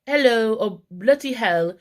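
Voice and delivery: a hammed-up British accent; a quick, light British hello, then a slowed bloody hell. Mock British accent as Kelly greeting him again. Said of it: "had to put on, you know, a British accent".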